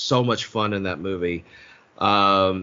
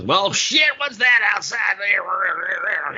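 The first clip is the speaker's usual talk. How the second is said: high, loud, startled yell; startled shout; 10 semitones higher, 3 dB louder, much slower than usual. Acted. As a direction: shout it out in alarm. Acted quote, startled Swayze.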